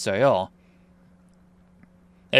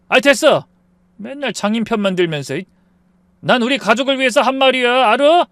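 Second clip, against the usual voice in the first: angry yell; 8 semitones higher, 6 dB louder than usual. Acted. 남편이 벌떡 일어나 소리침.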